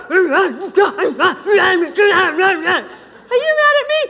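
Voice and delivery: high, loud worried question; high anxious shout. Retold or imitated. The woman asking the angry man, high and loud. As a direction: shout the fear at him. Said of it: "you're like".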